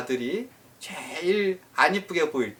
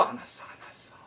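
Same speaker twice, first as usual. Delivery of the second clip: breathy whispered repetition, fading; hushed whisper; 17 dB quieter, much faster than usual. Acted. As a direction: whisper it as if still waiting in vain. 기다림을 속삭이듯 반복. (속삭이듯 안 왔어 반복)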